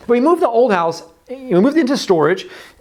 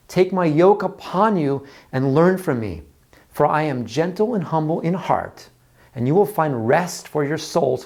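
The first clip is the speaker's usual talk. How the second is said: gentle scripture reading; 3 semitones lower, slower than usual. Acted. Pastor reads Jesus' words to the congregation, slow and tender. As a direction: read it like a gentle invitation. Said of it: "But Jesus said this in Matthew eleven".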